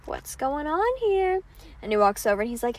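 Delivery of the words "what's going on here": suspicious. Retold or imitated. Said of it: "he's also being kinda".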